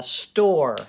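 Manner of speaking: store, said slowly and clearly for spelling; spelling word said clearly. Shown as a demonstration. Teacher modelling store for young spellers. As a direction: say store crisply so kids can spell it. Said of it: "Pause it and try it".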